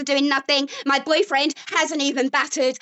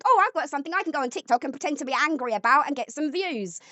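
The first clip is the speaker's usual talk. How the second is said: mocking his thoughts; faster than usual. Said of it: "You just think".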